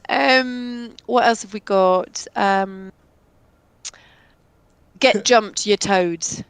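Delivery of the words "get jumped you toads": loud, punchy battle cry. Acted. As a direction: belt it out like a cartoon battle cry. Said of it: "Norrin's battle cry".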